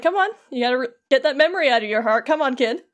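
mildly insistent imitated prodding; goading. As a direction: push him to hurry up and remember. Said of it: "like, still goading him on".

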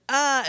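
short, high "ah" of alarm; mock startled cry. Billy shielding himself as the spider attacks, mock startled cry. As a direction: imitate a small cry of fright.

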